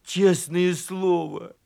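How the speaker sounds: slow, earnest protest; slow, insistent mumble; muttering. Acted. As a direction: plead it word by word, drawn out. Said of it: "бормотал ослик".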